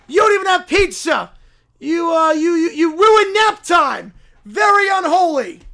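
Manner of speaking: pushy self-proclaimed prophet bellowing; loud holy crusader voice; zealous preacher. Acted. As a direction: barge in demanding converts. Preacher denounces them.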